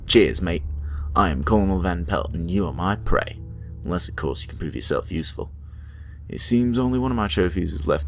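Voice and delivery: lightly voiced British colonel accent; a hint of a pompous British colonel accent. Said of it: "I chose the wrong accent to do for him".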